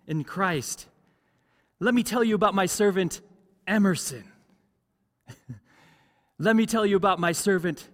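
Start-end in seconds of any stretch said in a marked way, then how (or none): 1.8-4.2 proud boast, high and loud; Jesus bragging. Acted. Preacher as God boasting of a church member, proudly bragging. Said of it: "starts to brag". 6.4-7.9 proud boast, high and loud; Jesus bragging. Acted. Preacher as God boasting of a church member, proudly bragging. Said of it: "starts to brag".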